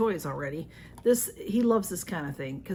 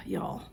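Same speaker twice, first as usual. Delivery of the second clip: breathy sigh of frustration; exasperated sigh; 6 dB quieter than usual. Real, not acted. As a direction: sigh out, fed up. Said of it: "I'm getting upset".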